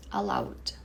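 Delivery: allowed whispered; allowed sussurrado. Shown as a demonstration. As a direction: breathe allowed out. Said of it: "pronunciation demo".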